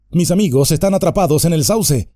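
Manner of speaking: breathless exclaim. Acted. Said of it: "exclamó Frodo sin aliento".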